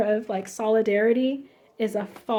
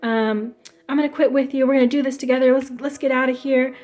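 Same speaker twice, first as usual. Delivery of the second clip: fake eager friend; 3 semitones higher, 5 dB louder, faster than usual. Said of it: "he's just like".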